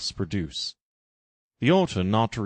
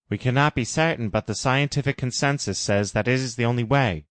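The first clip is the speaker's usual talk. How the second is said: higher, urgent, earnest warning; a raised, portentous voice; solemn Jim; 4 semitones higher than usual. Acted. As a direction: warn her as a grave mentor. Jim answers.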